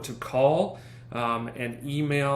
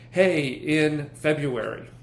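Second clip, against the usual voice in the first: slow, deliberate; 2 semitones higher, 4 dB louder, much slower than usual. Shown as a demonstration. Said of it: "I would probably say".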